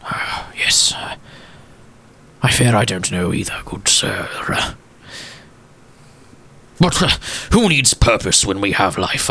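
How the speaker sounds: lightly voiced old gent, hushed in places; a hint of a sorrowful old gentleman remembering; wistful old gentleman. Walsworth continues.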